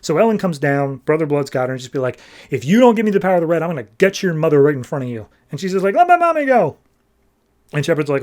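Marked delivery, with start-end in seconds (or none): 2.5-5.3 fast, louder menacing threat; a villain rattling off a threat against the mother. Acted. 5.9-6.8 put-on high, louder childlike cry; a small daughter begging the villain to free her mom; little girl pleading.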